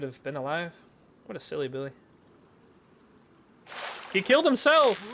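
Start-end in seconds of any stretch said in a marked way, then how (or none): 4.1-5.0 exclaiming. Real, not acted. Exclaiming at a teammate's death.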